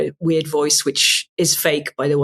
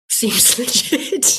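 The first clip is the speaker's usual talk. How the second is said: slow, higher, laughing through the words; amused concession; 7 semitones higher, much slower than usual. Acted. Host admits the tractor conspiracy now sounds plausible, amused and drawn out. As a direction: draw it out high with a laugh. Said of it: "now I'm like".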